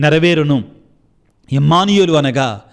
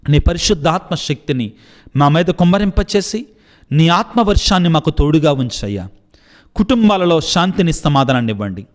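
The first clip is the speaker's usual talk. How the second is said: leading prayer. Acted. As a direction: plead with God on behalf of the sick. Leads congregation in prayer. (భక్తితో ప్రార్థన చేసే స్వరం)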